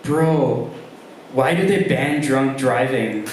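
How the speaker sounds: lightly voiced stoner, slow on the punchline; stoned friend. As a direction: drawl it like a tripping buddy. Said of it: "fountain of wisdom include".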